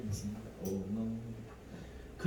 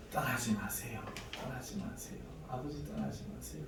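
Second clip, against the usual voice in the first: hushed, half-whispered plea; soft begging; 6 dB quieter than usual. Retold or imitated. Son begging the Father to stay, hushed. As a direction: beg him softly not to leave.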